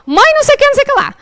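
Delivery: high-pitched blah-blah complaint; imitated nagging son. Mother skims her son's texts, high mock nagging. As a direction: mimic a teen's endless nagging. Voicing son's messages, glossed.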